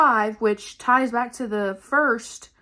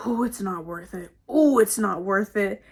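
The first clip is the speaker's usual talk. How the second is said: imitated muttering woman; 3 semitones lower than usual. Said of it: "I hear her come up one last time".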